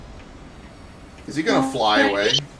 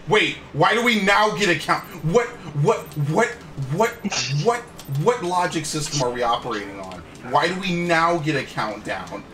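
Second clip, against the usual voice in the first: confused outburst; 5 semitones higher than usual. Real, not acted.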